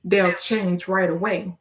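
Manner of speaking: measured spoken-word cadence; poem recitation. Acted. Poet urging listeners to ask God, measured verse. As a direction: recite in short phrases, leaning on the rhymes.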